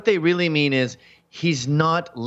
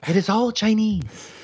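lightly raised pitch, scandalised; mock-outraged, raised; high outraged repeat; 8 semitones higher than usual. Shown as a demonstration. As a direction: say it up high again. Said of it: "why does your voice go up an octave".

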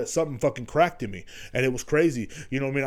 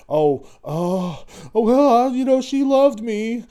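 high, slow mocking voice; mocking whiny ex; 9 semitones higher, 4 dB louder, much slower than usual. Mocking the guy who still thinks she loved him. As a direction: whine it up high like a sap. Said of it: "It's like, fuck that, dude".

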